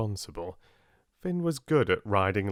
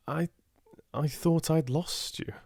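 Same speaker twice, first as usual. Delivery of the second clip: hoarse, croaking relief; croaked; 8 semitones higher than usual. A narrator's reading. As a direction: croak it out, voice rough. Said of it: "he croaked".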